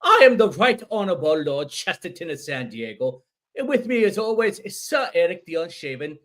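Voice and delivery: loud, high-pitched mock British lordly welcome; British accent. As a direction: play a pompous British lord introducing guests. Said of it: "have gone full British".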